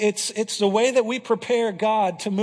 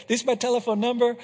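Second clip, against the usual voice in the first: put-on a light Honduran Spanish accent, a bit fast; imitating Israel's Honduran English, quick and plain; 3 semitones higher than usual. Pastor imitating translator Israel's radio call, light Honduran accent. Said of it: "I'm speaking like Israel".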